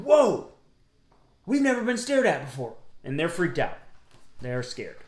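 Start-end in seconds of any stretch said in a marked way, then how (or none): 0.0-2.7 surprised wild things. Acted. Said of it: "and they're going".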